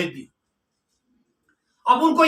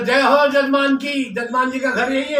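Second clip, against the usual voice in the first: calling out; 3 semitones higher than usual. Acted. Pandit calling at the miser's door, calling out. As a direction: announce yourself to the household.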